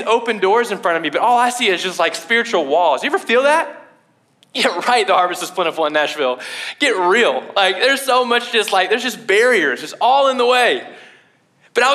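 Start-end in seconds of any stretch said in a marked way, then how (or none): 4.5-7.4 "the harvest is plentiful in Nashville" rattled off low and fast in mockery; sarcastic scoff. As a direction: toss it off like an eye-roll. Mocks the idea of a harvest in Nashville.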